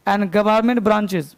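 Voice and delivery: very slow dictation pace; teacher dictating grammar rule. Shown as a demonstration. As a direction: drag each word for students to write. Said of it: "teacher dictating slowly".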